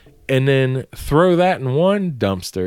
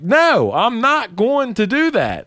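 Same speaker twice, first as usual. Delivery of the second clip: defiant refusal; 5 semitones higher than usual. Retold or imitated. Refusing the boss, retold.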